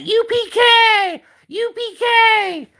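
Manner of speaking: high, slow yelled battle cry; war chant yelled out high and slow. Shown as a demonstration. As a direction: bellow it like charging into war. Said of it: "that should be your battle cry".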